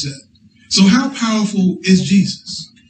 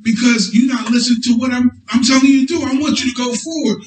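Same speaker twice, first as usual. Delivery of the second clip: higher, shouted scolding of the donkey; angry Balaam; 4 semitones higher than usual. Retold or imitated. Preacher as Balaam yelling at his donkey, higher. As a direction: bark at the donkey like frustrated Balaam.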